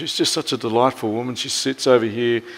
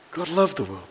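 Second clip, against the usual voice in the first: God loved the world said softly, drawn back; soft repeated phrase; quiet echo; 9 dB quieter than usual. Shown as a demonstration. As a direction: let God loved the world fall away. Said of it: "quiet echo of the verse".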